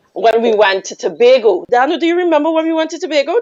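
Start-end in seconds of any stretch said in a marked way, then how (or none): 1.7-3.4 teasing call-out. Real, not acted.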